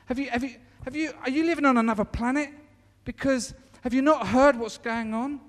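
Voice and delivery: loud, disbelieving "What's wrong with you?"; the disciples scolding the stranger; incredulous. Retold or imitated. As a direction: scoff at him like he's clueless. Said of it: "they look at him and they go".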